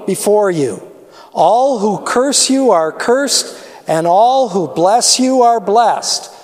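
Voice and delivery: steady storytelling read of the Bible passage; scripture reading. Acted. Pastor reading scripture to the church, measured storyteller voice. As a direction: read the blessing out to the congregation.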